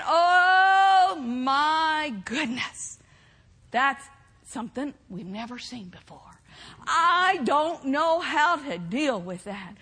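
drawn-out, hammed-up fretting; mock dismay. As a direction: stretch the opening, then trail into acted helplessness. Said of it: "He's not saying".

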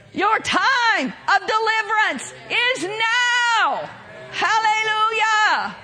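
pastor calling out freedom to the church, full-force preaching. Real, not acted.

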